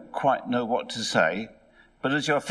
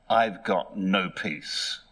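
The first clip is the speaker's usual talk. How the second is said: slow, downcast reply; mildly glum, unhurried acted answer; 3 semitones lower, much slower than usual. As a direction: say it glumly, drawing the words out.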